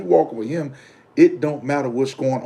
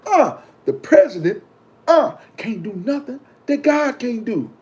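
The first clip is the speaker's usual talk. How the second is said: much higher, slow, drawn-out proclamation; for the people in the back; 9 semitones higher than usual. Shown as a demonstration. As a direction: stretch out "the president can't do nothing that God can't do" high and slow like calling to the back row. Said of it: "Can I say it for the people in the back?".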